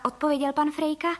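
usual speaking voice

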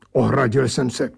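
ordinary delivery

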